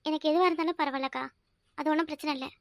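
quietly, a touch shy; shy soft reply. Acted. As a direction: answer the hostess meekly and softly. Shy guest answering softly.

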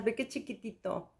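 hushed, cooing over something tiny; soft delighted murmur. Real, not acted. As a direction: coo at the tiny pot softly.

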